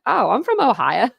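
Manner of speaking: put-on Southern-accented, pitch rising and dipping; Southern twang. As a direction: lay on a light Southern twang. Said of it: "I'm the only one with a Southern twang".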